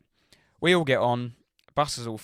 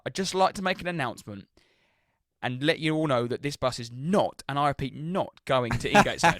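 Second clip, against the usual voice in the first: mock announcement; 3 semitones higher, 4 dB louder than usual. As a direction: make a grand mock announcement to the bus. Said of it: "we're just like".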